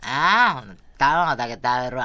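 imitating her friend. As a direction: mimic a full daughter caving in. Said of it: "私のモノマネは全然違うからね".

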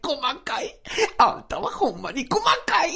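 mock whining. Scolded friend whines.

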